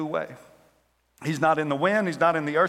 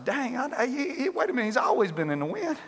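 higher but softer stammer; confused letdown; 5 semitones higher, 3 dB quieter than usual. Acted. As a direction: stumble in disbelief. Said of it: "Elijah's like".

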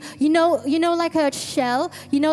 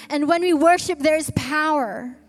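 louder, rising preacher's declaration; proclaiming; 5 dB louder than usual. Real, not acted. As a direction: declare it to the church.

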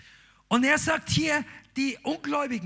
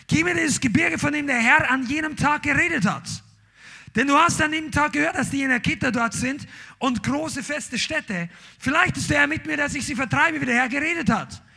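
bold preaching; 4 semitones higher, 3 dB louder than usual. Acted. Kaleb's demand continued.

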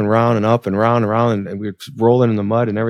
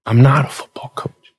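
hushed father; 2 semitones higher than usual. Retold or imitated. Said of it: "He said".

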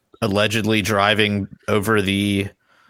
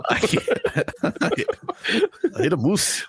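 laughing; 10 semitones higher, 3 dB quieter, much slower than usual. Real, not acted. Repeating the drunk's line laughing.

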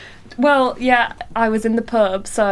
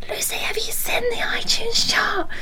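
partner's call; 14 semitones higher than usual. Retold or imitated. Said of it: "my partner going".

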